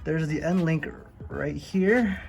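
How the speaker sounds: talking while lying under a car; strained, lying on your back under a car. Real, not acted. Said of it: "I'm under the car".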